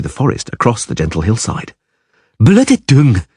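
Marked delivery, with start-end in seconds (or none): 2.4-3.2 sharp higher yell; yelled curse. A narrator's reading. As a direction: spit the curse out. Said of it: "the Dryad yelled".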